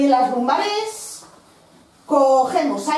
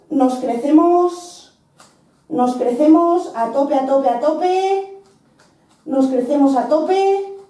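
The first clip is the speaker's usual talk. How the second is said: barking gym coach. Real, not acted. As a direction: drive them through the last seconds. Coach pushing class through hold.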